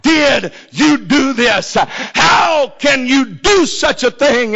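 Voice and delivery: slow, drawn-out mock scream; anguished cry, mildly acted; retold scream. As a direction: wail it out word by word, without full volume.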